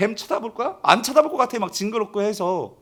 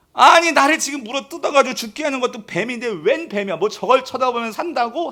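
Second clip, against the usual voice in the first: higher-pitched mock protest; retold complaint; 4 semitones higher than usual. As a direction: object indignantly, as a grumbler would. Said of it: "이게 막 불평하는 사람 있었을 거예요". (불평하는 사람 흉내)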